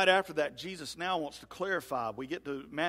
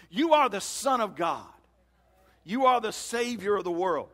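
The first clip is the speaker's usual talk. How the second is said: raised, emphatic confession; piping up boldly; 3 semitones higher, 5 dB louder than usual. Acted. Preacher as Peter confessing who Jesus is, bold declaration. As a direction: proclaim it with no doubt. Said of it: "he pipes up and he says".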